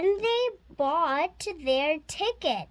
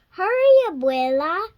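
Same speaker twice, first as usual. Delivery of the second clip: urgent plea; 3 semitones higher, 6 dB louder, much faster than usual. Acted. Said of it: "Sophia said".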